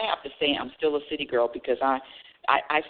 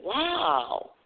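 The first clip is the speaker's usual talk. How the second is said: admiring; 3 semitones higher, much slower than usual. Pretend.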